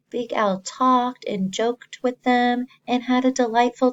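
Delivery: storybook read that brightens toward the happy part; read-aloud turning cheerful; reading to children. Acted. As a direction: start hushed, then lift it as things go well.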